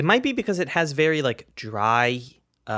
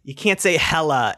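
laughing; 2 semitones higher than usual. Real, not acted. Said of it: "not expect me to laugh".

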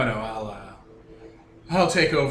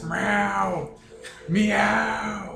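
high, louder meowing; cat meow; 10 semitones higher, 4 dB louder than usual. Acted. Cat noises for the cat.

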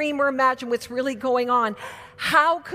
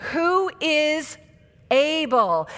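staccato; 3 semitones higher, much slower than usual. Shown as a demonstration. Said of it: "say this".

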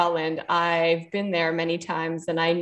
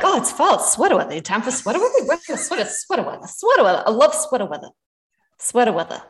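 put-on Boston accent; 3 semitones higher, faster than usual. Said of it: "that's in a Boston accent is the best".

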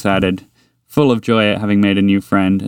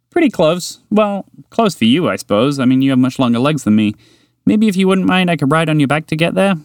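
higher, eager little mouse voice; higher mouse, keen and friendly; 7 semitones higher than usual. Acted. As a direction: tempt a new friend with chocolate. Mouse character chatting.

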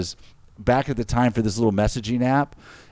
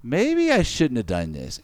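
inner worry; 2 semitones higher, slower than usual. Retold or imitated. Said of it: "then I'm thinking".

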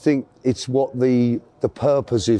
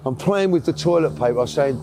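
usual speaking voice

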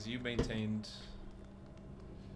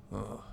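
grunt; 3 dB quieter than usual. Acted. Guard looks into the room and turns back, grunting. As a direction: grunt dismissively after a glance inside. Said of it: "He kinda grunts".

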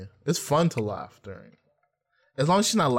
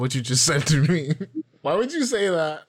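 put-on higher, offended girl voice; hurt white girl voice; 3 semitones higher than usual. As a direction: act wounded and dramatic. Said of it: "you start talking like a white girl".

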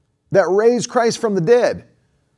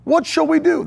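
frightened servant; 8 semitones higher, 3 dB louder than usual. Acted. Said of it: "And he says".

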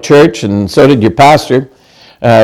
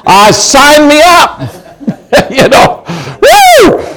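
mock excitement; 11 semitones higher, much slower than usual. Mock joy at struggle-free salvation.

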